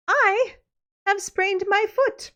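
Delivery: high, slow whine of a bride faking a sprained foot; milk the fake injury in a high, drawn-out whine; whiny fake injury. Bride begging Maid Maleen to swap places, high fake whine.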